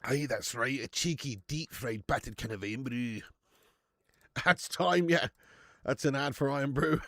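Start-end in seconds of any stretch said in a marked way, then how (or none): 0.0-3.2 broad, hammed-up Scottish accent; mock Scottish accent. Streamer playing a Scottish pundit predicting the match, mock Scottish accent. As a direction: put on a jokey Scots voice. Scottish bit for Irn-Bru.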